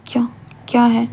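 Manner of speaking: whisper. Acted. Wing whispers to Wang ji.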